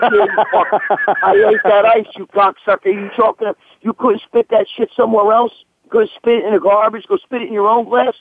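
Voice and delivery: mock-outraged scolding; retold cursing comeback. Bouncer cursing the man who reminds him of the ice, indignant. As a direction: replay chewing out an old friend.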